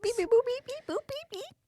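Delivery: high beeping robot noises; toy robot voice. Pretend. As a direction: beep like a cheap toy robot. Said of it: "I'm a great robot".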